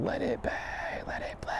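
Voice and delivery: hushed, voiceless mock scream; imitated scream. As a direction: rasp it out as an under-the-breath scream. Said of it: "he just starts screaming".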